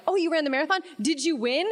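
mock wide-eyed question; naive coworker. Host voices coworkers' naive question.

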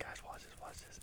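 unvoiced excited whisper. Telling friends to watch, in a whisper. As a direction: hiss it to friends under your breath. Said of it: "I was like".

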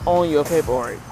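loud, brushing-off doctor voice; dismissive doctor. Retold or imitated. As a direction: wave the patient's pain away loudly. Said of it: "how he was talking to me".

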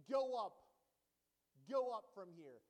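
loud taunting call, go up; mocking jeer. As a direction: jeer at him to go up and away. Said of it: "were mocking Elisha, saying".

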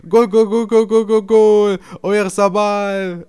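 loud, high, drawn-out goal call; stadium announcer. Retold or imitated. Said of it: "der Stadionsprecher".

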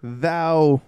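loud, grand olden-English opening; grandly put-on archaic voice; mock Shakespearean. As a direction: declaim it like a stage player. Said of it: "like, Shakespeare and shit".

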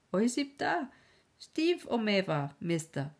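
high, excited broken German; lightly voiced servant. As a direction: blurt out the good news.

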